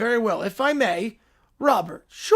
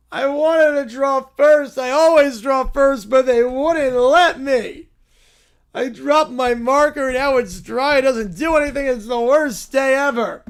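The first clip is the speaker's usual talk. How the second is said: put-on whiny kid; 3 dB louder than usual.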